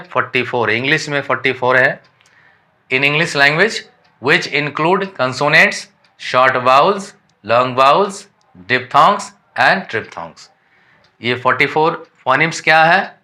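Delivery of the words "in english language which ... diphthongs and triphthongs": reading English textbook lines slowly and deliberately; careful dictation pace for students; slow read-aloud definition. Shown as a demonstration. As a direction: dictate it word by word to the class.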